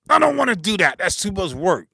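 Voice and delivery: mocking lazy whine. Acted argument, lazy producer voiced.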